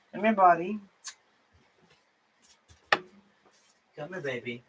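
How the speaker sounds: whisper-soft lure for the cat; calling the cat. Real, not acted. Calling her cat again.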